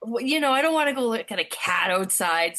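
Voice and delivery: annoyed. Retold or imitated.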